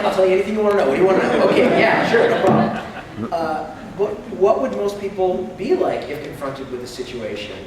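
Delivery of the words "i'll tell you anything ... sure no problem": laughing, eager to please. Retold or imitated. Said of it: "Most of us are like".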